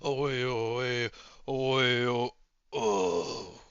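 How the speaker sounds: low, soft droning chant; muttering. Acted. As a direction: drone it to yourself, absorbed. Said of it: "you hear him muttering".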